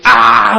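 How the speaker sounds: long, high, loud "ah" as in crying out in prayer. Retold or imitated. Pastor showing how he prays alone before youths, loud cry. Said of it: "목소리를 크게".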